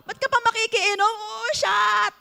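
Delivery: a playful barkada toast; mock drinking toast. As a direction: hype up a drinking buddy. Mocking drinking buddies.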